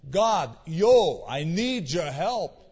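a light, offhand "yo" to God; casual street talk. Retold or imitated. Preacher showing casual everyday prayer, lightly slangy.

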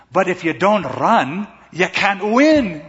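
put-on a touch of a smiling, encouraging girlfriend; smiling encouragement. Girlfriend cheering up the defeated runner, lightly voiced smile. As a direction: gently coax him with a smile. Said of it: "she smiles".

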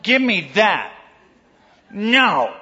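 a hint of a bossy toddler; toddler demands. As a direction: play a small child grabbing for things. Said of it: "It will be something like this".

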